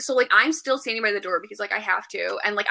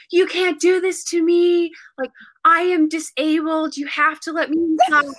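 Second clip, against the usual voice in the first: mock indignant demand, pitched up; retold irate protest; 6 semitones higher, 3 dB louder than usual. Locked-out customer demanding to be let in, mock outrage.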